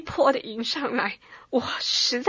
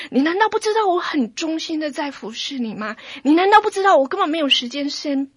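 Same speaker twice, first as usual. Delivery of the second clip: hurt anger; 3 semitones higher, 5 dB louder than usual. Retold or imitated. Angry complaint to God.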